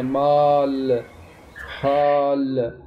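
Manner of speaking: माल, हाल with a heavy, dark aa; thick Urdu alif. Shown as a demonstration. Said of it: "कदरे मोटी आवाज़ के साथ". (मोटा अलिफ, उर्दू अंदाज़ में)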